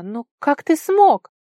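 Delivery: high, loud and slow amazed question; loud slow wonder; astonished exclamation. A narrator's reading. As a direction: marvel out loud. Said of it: "воскликнула она".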